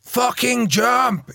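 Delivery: ballistic coach yelling. Retold or imitated. Coach screaming at his line-out jumper, high furious yell. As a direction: rage at the jumper from the touchline. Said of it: "He's going ballistic at me".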